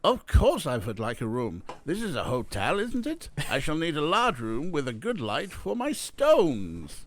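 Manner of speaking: put-on imperious hotel guest in a thick foreign accent; Eric Weiss, heavy accent. A narrator's reading. Guest demanding a large room for his gems, heavy accent. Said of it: "Oh, a heavy accent".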